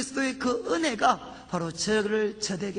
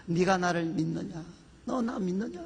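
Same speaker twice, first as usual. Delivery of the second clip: God's question; 5 semitones lower than usual. Retold or imitated. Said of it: "하나님은 언제나 저에게 하셨던 일은".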